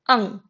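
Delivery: "ang" ending on a nasal ng sound; pronounced like ang. Shown as a demonstration. Teacher showing ing at the end of a syllable, nasal ng. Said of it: "then it is pronounced like".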